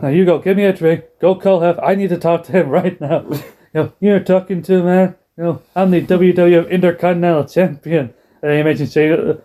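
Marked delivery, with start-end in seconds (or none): 0.0-8.1 mock Eddie boasting.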